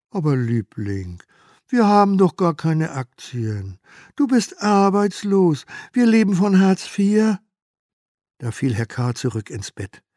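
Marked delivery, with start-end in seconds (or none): 0.1-7.4 slow, louder and higher, patient disbelief; wife's exasperated voice. Acted. Wife telling panicking husband they own no shares. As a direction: talk him down, slowly, incredulous.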